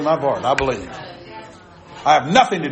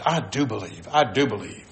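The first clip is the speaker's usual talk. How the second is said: lower, softened retelling of a sincere reply; kind, humble insistence; 5 semitones lower, 6 dB quieter than usual. Retold or imitated. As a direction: insist gently, without arrogance. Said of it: "with kindness, not with arrogance".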